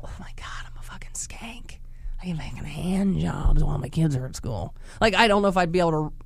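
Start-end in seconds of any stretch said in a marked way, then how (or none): 0.0-4.8 hushed secret whisper to herself. Retold or imitated. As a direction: whisper the guilty thought. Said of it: "Coming up with my cover story".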